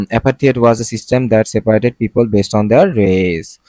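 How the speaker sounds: deliberate, word-by-word reading; slow example reading. Shown as a demonstration. Teacher reading the apartheid example to students, slow and careful. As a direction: spell the sentence out slowly. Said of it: "reads example sentence slowly".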